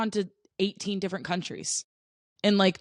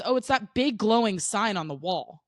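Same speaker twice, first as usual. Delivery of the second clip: mock-helpful retort; 4 semitones higher than usual. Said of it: "you're pointedly ignoring".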